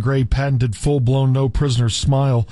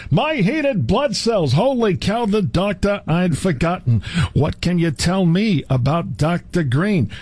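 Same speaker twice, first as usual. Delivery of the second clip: hammed-up dramatic reading; 6 semitones higher than usual. Comic over-the-top reading of quote.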